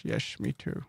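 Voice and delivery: a breathy little whisper; whispered aside. Pretend. Answering his own line about tacos in a whisper. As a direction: whisper it back like a second voice.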